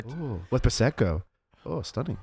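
high, gushy server impression; mock fawning server. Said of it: "It's just the way she, like, cuts her off".

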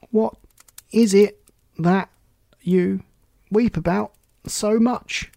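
high, halting, breath-starved words; trying to catch breath. A narrator's reading. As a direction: gasp it out a few words at a time. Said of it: "trying to get his breath".

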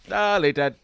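loud, high, booming "Deleted."; Strong Bad voice. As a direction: bellow it like a cartoon villain. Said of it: "it's from Strong Bad reading emails".

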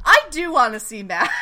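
loud, eager and laughing; excited shout. Real, not acted. Podcast host reversing herself, loud eager shout. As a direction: blurt it out with a laugh. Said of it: "I take it back".

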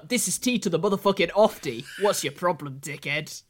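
a weak, badly faked Geordie accent; lightly put-on Newcastle voice; mock Geordie rapper voice, barely there. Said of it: "worst, uh, Newcastle Sunderland accent you will ever hear".

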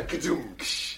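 spoken rimshot, thud then cymbal hiss; imitated drum sting. Storyteller capping his own joke, imitated rimshot.

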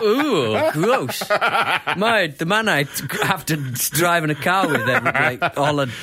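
disgusted. Retold or imitated. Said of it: "like he's disgusted".

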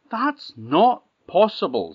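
loud, high, slow disbelief; loud troll. Acted. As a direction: boom it out as the troll.

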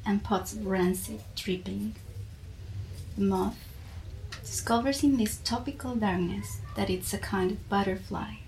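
measured, deliberate reading of a poem; poetry reading. Acted. Reading her favourite poem aloud to the listeners, in a measured poetry-reading voice. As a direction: let each line land, pausing between images.

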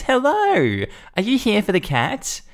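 high, far too sweet greeting; fake-nice neighbor switching on the charm; sugary nice voice. Karen greets animal control in a sugary high voice. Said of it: "she's turned into the nicest woman in the world".

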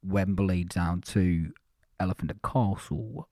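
put-on a mild Cockney accent read in monotone, slow; Cockney monotone announcer. Host imitating a London tube announcer, mild Cockney monotone. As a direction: drone the Bakerloo line stops. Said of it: "I need to get Cockney".

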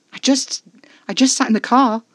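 high, loud, indignant; defensive protest. A narrator's reading. Narrator protesting to Casper, loud and defensive. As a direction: push back hard. Heated argument in the car.

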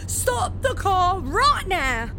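slowed, emphatic command; insistent slow demand. Acted. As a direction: drag it out, stressing right now. Repeated, slower and stronger.

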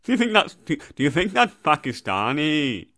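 Canadian attempt that drifts off course; badly faked Canadian; bad Canadian accent. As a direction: keep up the botched Canadian accent. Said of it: "He's not trying to be like Pakistan".

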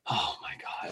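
breathy hushed dismay; whispered despair at the GPS; dismayed oh my God. Retold or imitated. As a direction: let it out like a defeated sigh. Dismay at three more hours.

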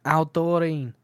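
lightly voiced Northern English "Ow"; a touch of Northern English dialect. Daughter quoting her dad calling Doreen, lightly Northern English. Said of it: "It's a Northern thing".

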